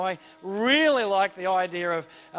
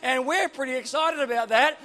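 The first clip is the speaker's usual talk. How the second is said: building from puzzled to loud, high exclamation; incredulous angels; 5 semitones higher, 6 dB louder than usual. Acted. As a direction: draw out the words, growing louder and higher in excited disbelief. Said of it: "the angels are sitting there going".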